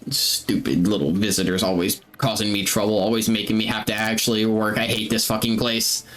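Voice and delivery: lightly voiced chattering guard, muttering complaints. Game master as carnival guard griping about visitors, lightly chattering. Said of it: "his voice just sounds very chattering".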